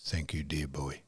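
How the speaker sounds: a failing voice at the end; frail dying whisper. Retold or imitated. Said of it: "he said".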